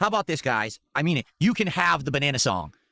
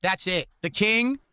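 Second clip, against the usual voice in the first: high-pitched, fed-up proclamation; exasperated declaration; 6 semitones higher, slower than usual. Real, not acted. Streamer refusing to watch more of the clip, exasperated. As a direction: declare you are done, pitch climbing on the last part.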